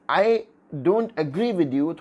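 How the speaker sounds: very slow, deliberate blunt disagreement; slow, firm, unsoftened objection; direct. Shown as a demonstration. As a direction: say the disagreement squarely, word by word. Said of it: "थोड़ा direct हो जाता है".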